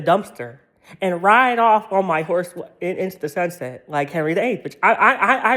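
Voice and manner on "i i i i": laughing. Real, not acted. Laughing mid-rant.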